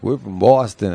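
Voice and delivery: imitated Boston accent; lightly put-on Boston vowels. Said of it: "you said Boston".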